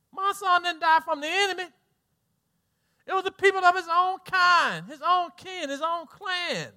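high-pitched, pained protest; acted anguished parent. Parent protesting a son's death by friendly fire, acted anguish. Voices parent of soldier killed by comrades.

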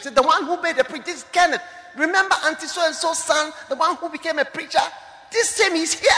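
high American English voice; American English accent. Retold or imitated. Relative announcing Kenneth in American English. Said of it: "in American English".

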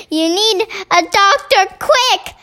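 mild mock urgent cry; king lightly calling out for a doctor; cried out. Worried king urging the queen to see a doctor, mild cry. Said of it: "the king cried".

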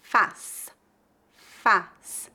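Faz with an open oral A. Shown as a demonstration. Teacher models Faz for learners, open A. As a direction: say Faz wide and open, no nasal. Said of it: "feita com o A aberto".

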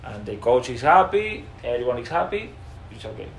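put-on halting, clumsy Spanish-accented English; mock his own old beginner English; self-mocking broken English from a footballer. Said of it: "así".

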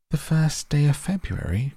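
a mother blurting out in surprise; startled cry. Acted. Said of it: "cried Missus Bucket".

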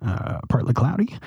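lightly voiced airline captain; a hint of a captain on the intercom; pilot announcement voice. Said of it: "You have a pretty good captain voice".

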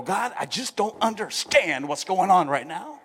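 acted distress, crying out to a father; pleading prayer. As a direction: beg for answers like a lost child. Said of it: "crawl up in his lap and go".

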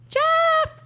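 high, delighted shout of the name; excited cheer. Real, not acted. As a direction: cheer it out like a fan. Cheering her pick.

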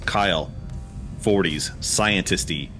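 reading the scene directions in a steady storyteller voice; script narration. A narrator's reading. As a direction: set the scene like a movie script. Reads screenplay action lines.

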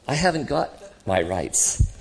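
slow, measured admission; calm spirit. Acted. Spirit answering the ghost about rights, calm. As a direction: concede it gently, without grievance. Spirit calmly admits the same.

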